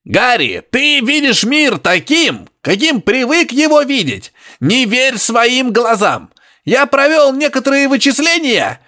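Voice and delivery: high, slow grunting insistence; high grunting professor. Acted. Professor insisting to Harry over radio, high grunting. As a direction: press it on him, high and piggy.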